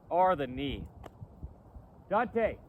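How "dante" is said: loud call across a field; calling out to dog. Real, not acted.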